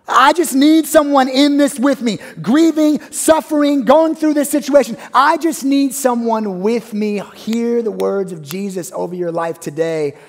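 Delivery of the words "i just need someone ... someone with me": higher, louder plea for company; a sufferer pleading for company; grieving plea. Retold or imitated. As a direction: beg not to be alone. Voicing a grieving listener.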